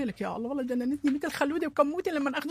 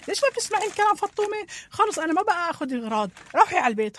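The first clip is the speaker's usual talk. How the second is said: louder, sharp reprimand; angry scolding; 3 semitones higher, 5 dB louder than usual. Acted. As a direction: lose patience with the child. Mother scolds disobedient daughter.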